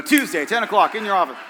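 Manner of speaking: mock the cool guy, punching out each phrase; a hint of a sitcom cool guy, punched up; Fonzie. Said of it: "Like he was Fonzie or something".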